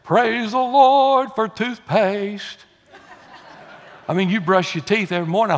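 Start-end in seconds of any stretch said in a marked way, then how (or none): 0.0-2.6 drawn-out, higher-pitched hallelujah over something trivial; mock-exultant shout, stretched out slow; mock praise. Preacher jokes about morning toothbrushing, mock praise. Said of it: "get up in the morning and say".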